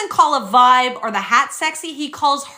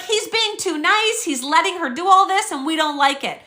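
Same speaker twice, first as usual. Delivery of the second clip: mocking the producers; 4 semitones higher than usual. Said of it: "They're like".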